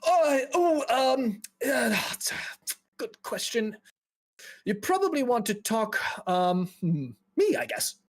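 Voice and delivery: high, halting nervous mage; flustered, hesitant, pitched well up; anxious fella. Acted. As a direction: struggle to get the words out. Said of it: "anxious fella kind of walks up to you".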